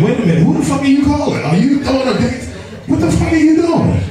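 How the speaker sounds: high, indignant challenge; hammed-up, high-pitched demand; mock confrontation. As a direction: square up in baffled outrage. Retold confrontation before a fight.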